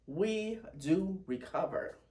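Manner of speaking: slow, tearful repeat; slow and teary, steady. Real, not acted. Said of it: "A little teary".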